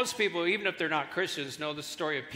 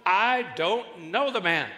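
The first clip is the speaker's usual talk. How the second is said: 1 denying with an oath; 3 dB louder, slower than usual. Retold or imitated. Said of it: "He denied it again with an oath".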